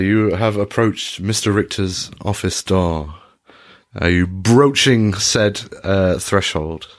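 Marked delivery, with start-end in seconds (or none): none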